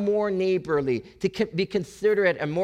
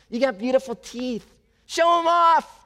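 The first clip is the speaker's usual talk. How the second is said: playful coaxing; 7 semitones higher, 5 dB louder than usual. Acted. Preacher coaxing congregation to smile.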